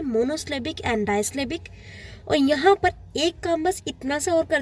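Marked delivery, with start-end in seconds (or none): 0.0-1.7 each syllable spelled out slowly; slow teacher's dictation of the terms; slow careful terms. Shown as a demonstration. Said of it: "आपको सीधा शब्द use करना है".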